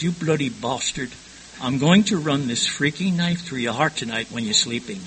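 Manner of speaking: put-on English-accented threat in an even voice; imitated English accent. Angry wife threatening her husband, imitated English accent. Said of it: "English accent came out even more pronounced".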